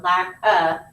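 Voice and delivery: "lack a" with A as a short "uh"; reduced vowel on the "a" after "lack"; schwa sound. Shown as a demonstration. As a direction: say "lack a" with a neutral, unspelled "uh". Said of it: "that's a schwa sound".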